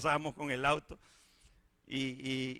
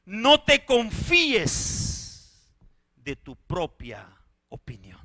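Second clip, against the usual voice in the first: slow then whispered; 7 dB louder, much slower than usual. Acted. Repeated, ends whispered.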